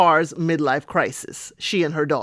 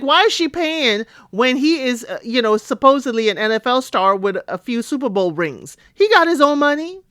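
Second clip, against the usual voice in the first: pitched up high, disbelieving; can't believe he isn't paying; incredulous; 4 semitones higher than usual. Retold or imitated. Recapper scoffing at the rich football star, pitched-up disbelief. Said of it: "And I'm like".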